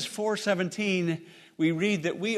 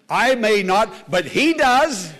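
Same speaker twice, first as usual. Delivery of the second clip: emphatic rebuttal; 4 dB louder, slower than usual. Real, not acted. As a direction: answer the doubter with ringing conviction. Preacher rebuts the objection.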